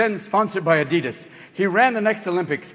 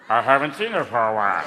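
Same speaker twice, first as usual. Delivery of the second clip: dim deep lug; 10 semitones lower than usual. Acted. Steroid user Bubba dimly answering questions, low. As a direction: drop low like a dazed bodybuilder.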